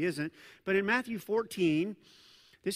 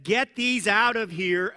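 loud command; 6 dB louder than usual. Retold or imitated. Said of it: "my guess is this was loud".

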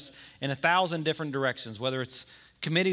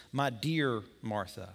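compassionate; 5 semitones lower, 3 dB quieter, slower than usual. Shown as a demonstration. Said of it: "He's compassionate".

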